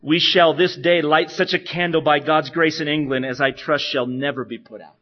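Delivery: loud, firm words of courage; rally your friend at the stake; Latimer's last words. Retold or imitated. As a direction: martyr encouraging Ridley at the fire. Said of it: "he is quoted as having said".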